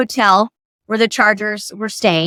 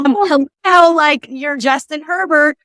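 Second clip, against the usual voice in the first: dumbstruck fan; 3 semitones higher, slower than usual. Retold or imitated. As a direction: imitate your own obvious-as-day fan reply. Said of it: "I was so dumb".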